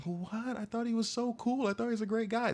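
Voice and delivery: high, put-on ditzy voice; mocking ditzy voice. Mocking a woman who defended the abuser, ditzy. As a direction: play the naive fan of the creep. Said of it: "And I'm like".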